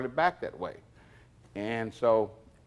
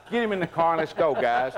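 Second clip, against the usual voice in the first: retold order; 5 semitones higher, 6 dB louder than usual. Elvis ordering the arrest.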